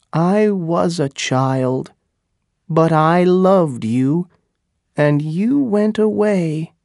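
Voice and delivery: indignant, aggrieved woman; wounded Pocahontas. Acted. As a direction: build reproach as the pitch climbs. Pocahontas accuses John Smith.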